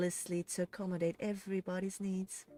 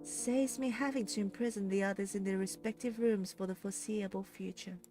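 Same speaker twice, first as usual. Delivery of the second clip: smug villainess explaining her scheme; smiling menace; 4 semitones higher, 3 dB quieter than usual. A narrator's reading. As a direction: savour every word. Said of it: "hear the voice smiling".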